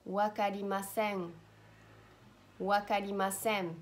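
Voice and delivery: "Wakarimasen" ending in a nasal hum; nasal final N. Shown as a demonstration. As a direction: end "Wakarimasen" from the back of the nose. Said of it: "a nasal pronunciation".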